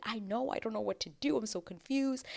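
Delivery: high, soft, confiding fretting; imitated whisper. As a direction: fret in a small hushed voice. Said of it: "like, whispers to her".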